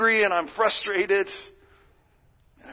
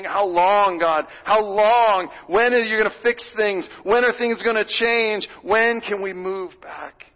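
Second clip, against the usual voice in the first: pressing, louder questions to God; impatient pleading; 2 semitones higher, 4 dB louder than usual. Acted. Pastor voicing the church's restless complaint to God, pressing. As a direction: push each question, a little exasperated. Congregation's impatient prayer voiced.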